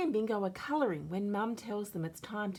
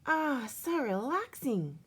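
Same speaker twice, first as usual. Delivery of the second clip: contented sigh; 8 semitones higher, 3 dB louder than usual. A narrator's reading. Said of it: "says Bingo".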